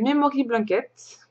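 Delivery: English title in a French accent. Real, not acted. Vlogger naming an English knitting pattern, French accent. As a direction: say the English name with French pronunciation. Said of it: "Pardon pour mon superbe accent français".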